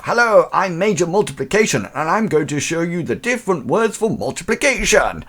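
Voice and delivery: high-pitched comic major introducing himself; army major. Acted. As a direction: announce yourself like a cartoon army officer. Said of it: "he's gone for an army".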